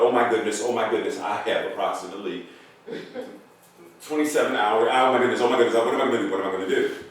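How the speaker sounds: rushed, fretting inner monologue; lightly acted worry, words tumbling out in repeats; mild mock panic. Old man fretting over the coming duel, mild panic. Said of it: "he's in his mind about".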